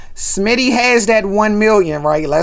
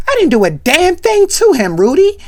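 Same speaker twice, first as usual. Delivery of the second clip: high, loud whiny protest; 11 semitones higher, 5 dB louder than usual. Retold or imitated. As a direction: yell your innocence at her. Vanessa protesting loudly.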